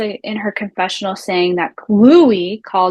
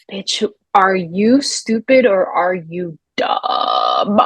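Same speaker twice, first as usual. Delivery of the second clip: slow sassy retort; 2 semitones lower, much slower than usual. Pretend. Host's imagined retort to Margaret.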